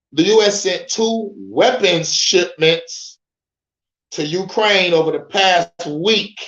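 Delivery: slow, careful read-through of the headline; drawn-out headline read. Shown as a demonstration. Reading the headline slowly to his viewers, slow and careful. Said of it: "This way it gets to the meat and potatoes".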